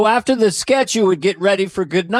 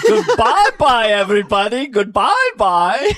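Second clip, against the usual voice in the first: mock the catchphrase through laughter; a light send-up of a TV goodbye; imitating the catchphrase; 2 semitones higher, 3 dB louder than usual. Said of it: "Do your catchphrase".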